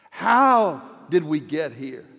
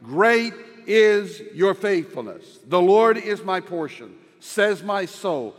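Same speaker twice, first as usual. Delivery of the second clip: measured pulpit reading of a psalm-like passage; scripture reading. Acted. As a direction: lift the verses up reverently, leaning on Lord. Reads Lamentations aloud.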